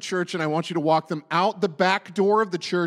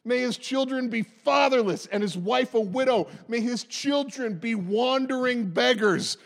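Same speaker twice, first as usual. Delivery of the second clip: raised-pitch, declaimed psalm; impassioned scripture reading; 4 semitones higher than usual. Acted. Preacher reading the psalm writer's words about an enemy, declaiming. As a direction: build the curses line upon line.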